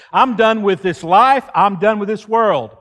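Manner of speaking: furious prophet issuing God an ultimatum; angry ultimatum. Acted. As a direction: throw down the ultimatum. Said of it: "That's what he says".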